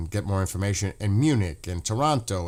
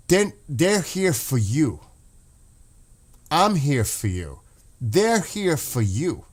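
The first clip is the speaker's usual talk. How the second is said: choked up; 3 semitones higher than usual. Real, not acted. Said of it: "I can almost get emotional".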